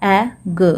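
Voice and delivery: "ए ग" as two separate phonics sounds; short "ए", a gap, then "ग" with a little uh; sounded out. Shown as a demonstration. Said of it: "तो यहाँ पे देखिए फ्ल". ("ए" और "ग" को अलग-अलग बोलें)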